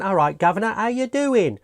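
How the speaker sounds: lightly mocked Cockney accent, pitch rising high at the end; hint of put-on Cockney, lilting up on the question; Walter Matthau. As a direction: imitate a film actor's bad Cockney. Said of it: "like, Cockney accent".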